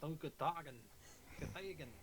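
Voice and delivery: loud, high guttural incantation; deep speech. Shown as a demonstration. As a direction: chant it like an eldritch tongue. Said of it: "give them a sample".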